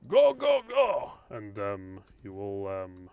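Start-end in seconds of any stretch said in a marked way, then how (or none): 0.1-1.1 high, loud "go, go, go"; shouted order. Acted. Driver ordering the squad out, loud shout. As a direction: yell them out of the vehicle.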